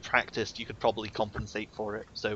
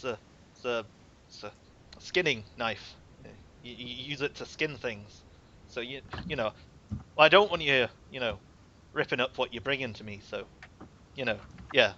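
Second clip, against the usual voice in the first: lightly voiced, halting Viking; a hint of Viking, trailing into awkward pauses; shy Viking; 3 dB quieter than usual. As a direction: fumble for words as a bashful craftsman. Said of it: "in my best Viking voice".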